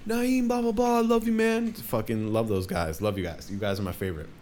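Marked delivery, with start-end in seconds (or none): 0.1-1.7 high-pitched hammed-up drunk bro. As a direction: gush like a drunk fan. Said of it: "he's like".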